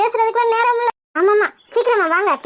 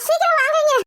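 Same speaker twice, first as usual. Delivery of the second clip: tearful panic; 3 semitones higher than usual. Acted. Girl urging mother to hurry after kidnapping, panicked. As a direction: plead in a panic, close to crying.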